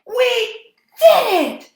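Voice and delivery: high, loud laughing cheer; triumphant shout. A narrator's reading. Night creatures celebrating their win, loud and laughing. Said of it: "shouted the night creatures".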